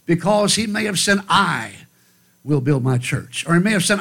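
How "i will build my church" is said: I hit hard, then a dropped low build my church; stress on I. Shown as a demonstration. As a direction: lean on the word I. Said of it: "which word he placed the most emphasis on".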